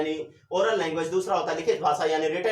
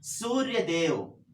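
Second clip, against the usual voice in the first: सूर्यदेव drawn out slowly, syllable by syllable; slow demo word; much slower than usual. Shown as a demonstration. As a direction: say सूर्यदेव slowly to show how long it takes. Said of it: "इसमें ज्यादा समय लग रहा है सूर्यदेव को बोलने में". (सूर्यदेव धीरे-धीरे खींचकर बोलना)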